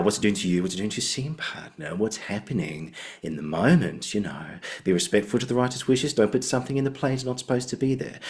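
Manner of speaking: affectionate impression, rising question endings; Andrew Davidson. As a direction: intone advice like an Australian drama teacher. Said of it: "like, impression of him".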